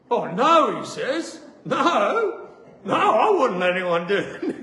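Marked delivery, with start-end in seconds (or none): 0.1-0.8 loud mock-alarmed refusal; alarmed denial. Surgeon recoiling from his own operation, mock alarm. 1.6-4.6 loud, hammed-up protest breaking into laughter; mock horrified refusal. Surgeon refusing the operation for himself, hammed-up horror. Surgeon's alarmed denial, retold.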